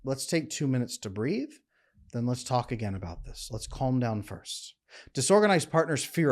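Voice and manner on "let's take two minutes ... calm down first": gentle structure. Shown as a demonstration. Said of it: "use a phrase like".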